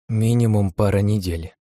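slow, a hint of tears; trembling voice. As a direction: say it reluctantly, lightly shaking. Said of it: "произнесла она дрожащим голосом".

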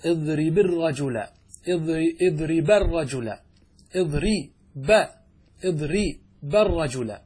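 slow, deliberate اضرب الرجل; teacher sounding out اضرب الرجل; slow demo. Shown as a demonstration. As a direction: model the phrase slowly for students. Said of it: "فتقول".

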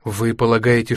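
ordinary delivery

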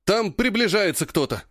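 high, breathless blurted alarm; urgent panting report. A narrator's reading. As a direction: gasp it out after running. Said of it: "запыхавшись, выпалил Патрик". (запыхавшийся тревожный доклад)

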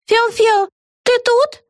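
very high sing-song call; calling from clouds. A narrator's reading. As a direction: call out for a friend in the sky. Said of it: "раздался голос из облаков".

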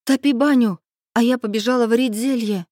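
shouted order. A narrator's reading. Heroine orders the hare to heat the bathhouse, calling out. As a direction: call out instructions in a rush. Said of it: "крикнула, обернувшись к зайчихе".

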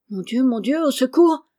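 rising panic, ending in a loud high cry; panicked cry for help. A narrator's reading. Frightened little lady crying for help, loud and high. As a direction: she thinks the madman will hurt her, cries out.

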